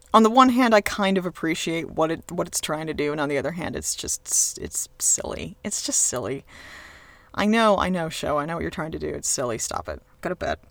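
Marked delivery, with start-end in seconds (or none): 3.8-6.4 hushed, breathy aside; whispered dismissal of the show. Real, not acted. 9.6-10.6 much lower, stern bedtime order; deep scolding voice aimed at the show; mock parent scolding.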